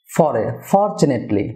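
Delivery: ফরচুনেটলি slowly, stress on "FOR"; stress on first syllable. Shown as a demonstration. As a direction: lean on the opening of ফরচুনেটলি. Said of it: "stress হবে". (ফরচুনেটলি-র "ফর"-এ জোর)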